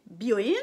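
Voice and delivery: "Byoin" with a brief O; "Byoin" as a compact "bio-ine"; short O. Shown as a demonstration. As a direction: say "Byoin" without stretching the O. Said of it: "ça veut dire, euh, l'hôpital".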